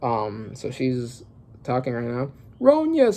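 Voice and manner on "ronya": put-on kids calling out. Kids call out her name.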